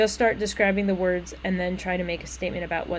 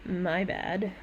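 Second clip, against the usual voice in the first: provoking fake sorry; icy "my bad." after a pause; cold apology; 5 dB quieter than usual. Shown as a demonstration. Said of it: "The two words were".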